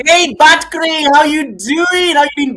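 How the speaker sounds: high, loud, long-drawn welcome; exuberant shout-out. Real, not acted. Streamer announcing Batcray's arrival, exuberant shout-out. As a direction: stretch the vowels and holler it.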